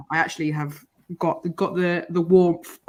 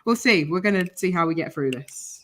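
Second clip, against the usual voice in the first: real hoarse voice from illness; raspy, worn-out voice; smoker's rasp. Real, not acted. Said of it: "I sound like I've smoked forty a day for forty years".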